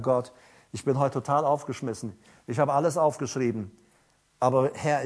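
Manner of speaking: low, hushed pleading with God; helpless prayer. Retold or imitated. Preacher retells praying before the service, low and helpless.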